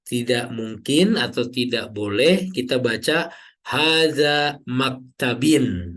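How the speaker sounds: maktabin said slowly with -in, shown as wrong; slow demo of the wrong ending maktabin; wrong reading maktabin. Shown as a demonstration. Teacher showing students the wrong ending, slow and deliberate. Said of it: "Nah, tidak mungkin ya".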